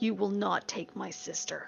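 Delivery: deep growling voice. Voicing a character facing a creature: growling. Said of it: "She just kinda growls at this thing".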